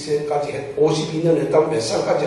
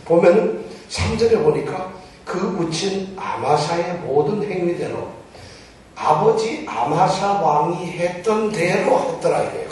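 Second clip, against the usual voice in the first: ordinary talk, nothing marked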